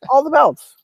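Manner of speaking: high emphatic repeat; excited. Retold or imitated. Hyping Kim Chi belts.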